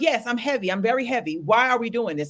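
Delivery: retold irritated answer; a touch of exasperation, pushing back. Client asking why they are doing this, irritated. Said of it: "and I'm irritated".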